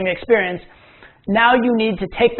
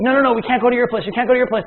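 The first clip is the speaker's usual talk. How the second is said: quick, higher panicked protest; mock freak-out; 4 semitones higher, faster than usual. Girls in the taxi refusing, quick mock panic. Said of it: "the girls immediately freak out".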